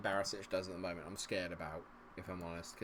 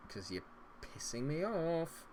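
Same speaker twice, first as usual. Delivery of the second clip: annoyed; 5 semitones higher, 6 dB quieter, slower than usual. Real, not acted. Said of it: "I'm getting annoyed very quickly".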